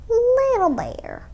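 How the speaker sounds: high, slow motherly bear call. Acted. Mother bear calling her cub, high and slow.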